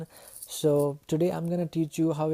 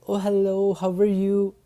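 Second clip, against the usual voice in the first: louder, gushing phone greeting; overdone excitement; 3 semitones higher, 5 dB louder than usual. Shown as a demonstration. Teacher showing students how not to answer calls, overdone excitement. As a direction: greet with too much excitement, slightly raised pitch. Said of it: "Don't sound really excited".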